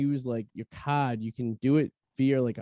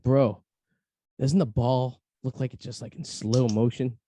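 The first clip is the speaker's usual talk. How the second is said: stoned cousin; 4 dB louder than usual. Retold or imitated. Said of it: "he looks at me, he's like".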